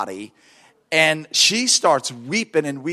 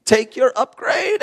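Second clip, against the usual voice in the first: tired retort; 5 semitones higher than usual. Retold or imitated. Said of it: "Look, I was tired".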